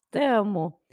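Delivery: "tamo" said slowly, no "es" at the start and no final s; slow colloquial contraction. Shown as a demonstration. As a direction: drag out "tamo" so learners hear the dropped sounds. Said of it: "muitos brasileiros falam assim". ("tamo" devagar, sem "es" e sem o s final, coloquial)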